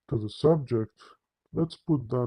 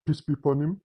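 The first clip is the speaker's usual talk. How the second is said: quick run-together blessing, slightly higher; rattled off; 3 semitones higher, faster than usual. Retold or imitated. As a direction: imitate a hurried rote blessing. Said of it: "that's how they say it".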